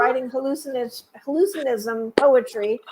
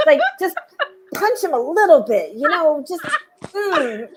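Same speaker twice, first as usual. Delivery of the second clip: louder, laughing through it; half-laughing, a bit louder; 4 semitones higher, 4 dB louder than usual. Real, not acted. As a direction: giggle while you confess it. Laughing about wanting to bite someone.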